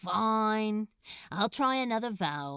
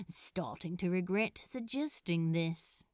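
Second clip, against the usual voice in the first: mild mock complaint, quieter; light grumble; 6 dB quieter than usual. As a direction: grumble it half-heartedly under your breath. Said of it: "Crowley grumbled lightly".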